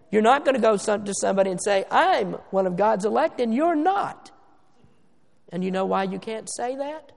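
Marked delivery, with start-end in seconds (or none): 1.9-4.3 slow, puffed-up one-upmanship; mock boasting. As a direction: imitate someone bragging down at a friend. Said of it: "stick out your check, your chest rather".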